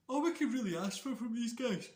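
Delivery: excited. Real, not acted. Enthusing about the match.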